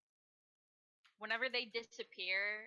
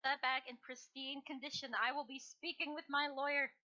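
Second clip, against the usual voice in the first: higher, measured haughty warning; prim, raised-pitch legal threat; indignant threat; 4 semitones higher than usual. Acted. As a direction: put a guard on notice, affronted. Indignant prisoner threatens guard over scarf.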